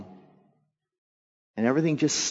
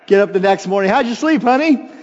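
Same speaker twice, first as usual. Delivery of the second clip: sweet husband voice; 8 semitones higher, 7 dB louder than usual. Retold or imitated. Acting out morning with wife.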